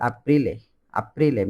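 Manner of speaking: আপ্রিলে as a-PRI-le, open a; Italian aprile. Shown as a demonstration. Teacher modelling Italian April, careful pronunciation. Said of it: "এই আপনার উচ্চারণগুলো একটু খেয়াল করবেন".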